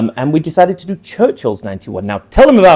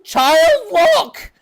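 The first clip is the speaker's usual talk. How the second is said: laughing realisation. Real, not acted. Realises the fix.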